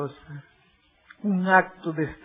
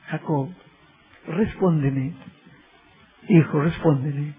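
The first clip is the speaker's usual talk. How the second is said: tender question; 2 semitones lower than usual. Acted. Christ softly questioning Jacob.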